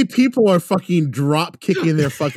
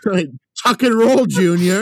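laughing; 6 semitones higher, 5 dB louder than usual. Pretend. Mock advice while laughing.

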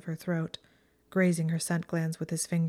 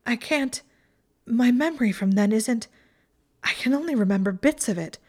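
loud, higher, distressed outpouring; urgent and distraught, voice raised; panicked confession; 5 semitones higher, 5 dB louder than usual. Acted. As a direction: blurt it out as panic mounts. Breathless, panicked confession of memory.

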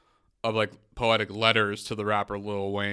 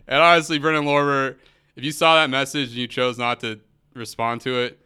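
angry callout; 6 dB louder than usual. Real, not acted. Telling off a poet who ignored his message, angry. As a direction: call him out, fed up.

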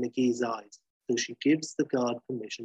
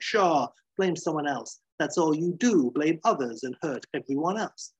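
higher, scornful accusation; 4 semitones higher than usual. Acted. McGee scoffing at Banner's denial, scornful. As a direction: throw the blame back at him.

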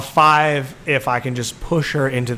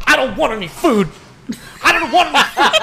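put-on a sulky man-child refusing food, going higher; whiny distraught fan; 10 semitones higher, faster than usual. Distraught fan snapping at his girlfriend, high laughing whine. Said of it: "And he visibly goes".

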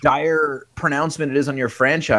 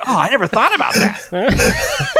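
dopey friend voice; 7 semitones higher, slower than usual. Retold or imitated. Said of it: "He's like".

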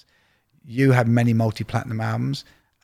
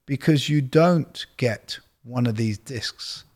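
slow, measured imitation of an executive; Clive Davis; slower than usual. Record executive schooling a young A and R man, slowly imitated. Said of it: "And he goes".

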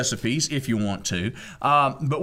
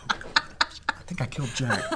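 laughing; 2 semitones lower, 6 dB quieter, slower than usual. Real, not acted. Laughing after hitting Jack.

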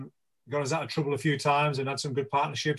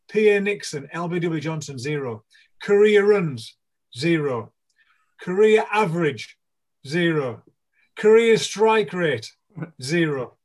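mock stadium announcer; 3 semitones higher, 6 dB louder, slower than usual. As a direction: announce every zero to the whole ground. Mock stadium announcement of zero career.

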